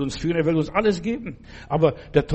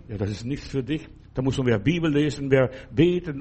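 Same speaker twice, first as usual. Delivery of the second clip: devil's whisper; 4 semitones lower than usual. Retold or imitated. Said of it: "da versucht der Teufel".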